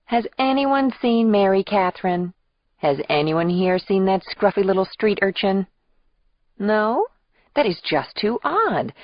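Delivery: high, singsong mock wonder; theatrical searching call. Aunt calling for her hiding namesake, theatrical and high. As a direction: ham up a pretend hunt for a child.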